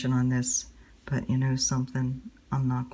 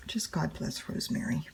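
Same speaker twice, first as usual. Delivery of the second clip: whispered blessing; 3 semitones higher, 7 dB quieter than usual. Real, not acted. Praying for friend in hospice.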